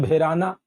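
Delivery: "भेराना" with b and h merged into bhe; Indore local pronunciation. Shown as a demonstration. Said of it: "हमारे इंदौर में बोल देते हैं".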